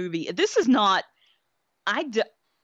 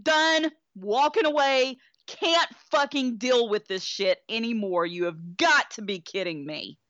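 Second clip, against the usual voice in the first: high-pitched refusal; 4 semitones higher than usual. Retold or imitated. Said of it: "I was like".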